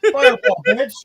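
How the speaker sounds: loud, high bursts ending in a shriek; hyped caster. Acted. Danielle blasting a fireball, loud and hyped. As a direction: wind up and unleash the fireball.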